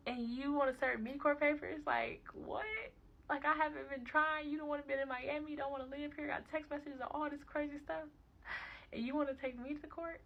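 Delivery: loud, high-pitched incredulous venting; indignant outrage. Retold or imitated. Mother venting about being served court papers, indignant.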